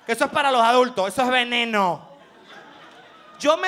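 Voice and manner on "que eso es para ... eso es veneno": scolding adult. Retold or imitated. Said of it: "cuando uno decía".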